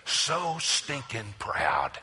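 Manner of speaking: drawn out word by word; slow emphasis. Real, not acted. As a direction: lay each word down slowly. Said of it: "preacher's emphatic slow verdict".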